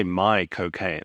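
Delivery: "cocaine" drawn out slowly after "my"; slow "my cocaine", like the actor's name; Michael Caine as my cocaine. Shown as a demonstration. Friend repeats the pun, inviting the host to try it. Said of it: "if you say".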